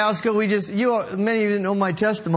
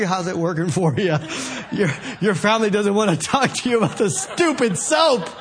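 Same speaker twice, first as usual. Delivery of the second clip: laughing mock retort; 2 semitones lower than usual. Teasing a soap-selling friend, laughing.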